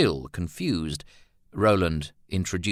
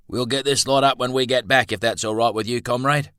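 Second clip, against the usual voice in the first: higher, louder breezy comrade; Milton's voice; 6 semitones higher, 5 dB louder, faster than usual. A narrator's reading. Milton telling Roland they will finish later, raised and breezy. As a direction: speak up brightly to a comrade.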